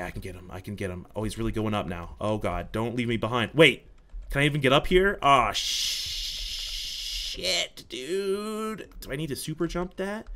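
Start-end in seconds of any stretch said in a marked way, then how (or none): none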